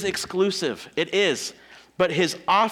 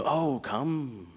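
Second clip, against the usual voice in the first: mock swindler; 2 semitones lower, 4 dB quieter, slower than usual. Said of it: "Convincing you".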